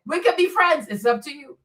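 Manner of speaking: ordinary talk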